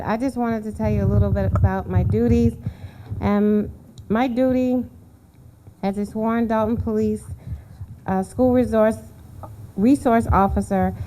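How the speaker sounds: nervous, halting delivery; stage fright. Real, not acted. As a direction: nervously feel for each word. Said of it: "I'm a little nervous".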